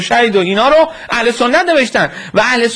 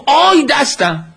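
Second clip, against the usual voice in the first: drawn-out mock cry of pain, higher pitched; retold pained cry; 4 semitones higher, slower than usual. Governor suddenly cries out over his hand, retold pained cry. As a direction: imitate a pained outcry without extra volume. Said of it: "یک دفعه یک فریاد زد".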